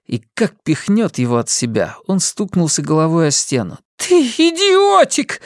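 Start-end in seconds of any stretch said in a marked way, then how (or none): 4.0-5.4 high slow angry woman's shout; Linda shouting. A narrator's reading. Linda shouts at her son and starts hitting him. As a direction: yell it at the boy. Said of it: "крикнула Линда".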